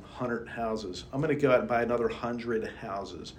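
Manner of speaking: thick Baltimore accent on hundred houses. Shown as a demonstration. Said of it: "that's my Baltimore accent".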